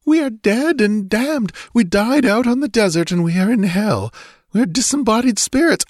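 very high, fearful wail; whimpering despair. A narrator's reading. Trembling girl convinced they are in hell, whimpering. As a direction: lament it in a high, panicked voice. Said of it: "whimpered Natala".

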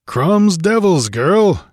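rough, slow warrior grunt; gruff grunt. Acted. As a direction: grunt it out like a weary barbarian. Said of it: "he grunted".

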